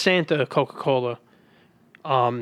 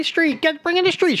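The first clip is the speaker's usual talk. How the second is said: excited announcing; 13 semitones higher than usual. Acted.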